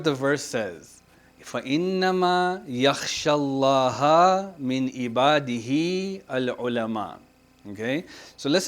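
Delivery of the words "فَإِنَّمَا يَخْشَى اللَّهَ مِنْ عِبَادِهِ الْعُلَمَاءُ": quick, even chanted recitation; Quran recitation. Acted. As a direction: recite the verse in a steady chant. Recites the verse being taught.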